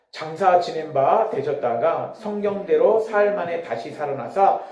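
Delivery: slow, measured Bible reading; deliberate, evenly paced recitation; scripture read in unison. Real, not acted. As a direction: lead a congregation through the verses, phrase by phrase. Leads congregation reading scripture aloud.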